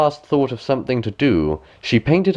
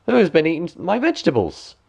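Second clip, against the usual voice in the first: fourth dwarf; 8 semitones higher than usual. A narrator's reading. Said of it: "The fourth".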